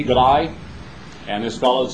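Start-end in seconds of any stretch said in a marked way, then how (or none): 0.0-0.5 G'day said as a quick Aussie greeting with a rise; light Australian accent on G'day. Retold or imitated. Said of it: "you've seen these ads on T V".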